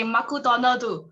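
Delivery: Japanese-accented McDonald's; sushi pronunciation. Shown as a demonstration. Joking about classmates' accents, demonstrating a Japanese accent. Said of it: "sushi pronunciation also".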